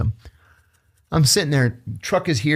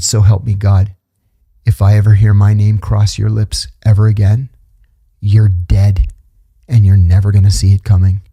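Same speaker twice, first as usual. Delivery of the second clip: menacing threat; 2 semitones lower, 5 dB louder than usual. Retold or imitated. Speaker threatens the man who called him a rat, menacing. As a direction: lean in and promise violence.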